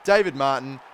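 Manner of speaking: rising excitement at a late goal; excited commentary. Real, not acted. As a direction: call it like a sudden lucky chance.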